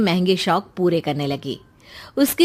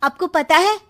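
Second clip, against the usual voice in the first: lightly voiced sly daughter, slow and higher; scheming sister; 6 semitones higher, 4 dB louder than usual. Daughter slyly telling mother about her brother. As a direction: drawl it out, planting doubt.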